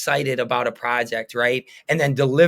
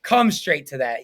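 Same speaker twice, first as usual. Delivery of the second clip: imitating his friend; 4 semitones higher, 3 dB louder than usual. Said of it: "he sometimes will humble me and be like".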